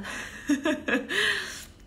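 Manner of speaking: real bright laugh. Real, not acted. Laughs off the crying question.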